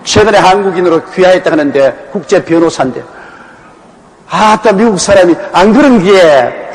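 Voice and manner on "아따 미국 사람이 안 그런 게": Gyeongsang dialect. Retold or imitated. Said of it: "경상도 사투리를 얼마나 하는지".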